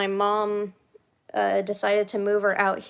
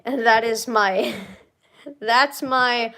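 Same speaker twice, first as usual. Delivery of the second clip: laughing. Real, not acted. Laughing about fears.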